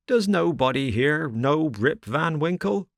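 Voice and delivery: high, pleading cry of despair. A narrator's reading. Rip crying out to the crowd in despair. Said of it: "cried out in despair".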